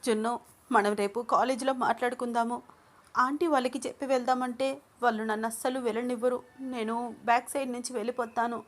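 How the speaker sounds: put-on girl sneaking away in tears; wiping away tears. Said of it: "వస్తున్న కన్నీళ్లు తుడుచుకుంటూ".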